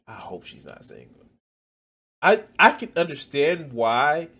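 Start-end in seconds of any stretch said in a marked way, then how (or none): 0.1-1.2 muttered aside. Pretend. Taunt repeated, much softer.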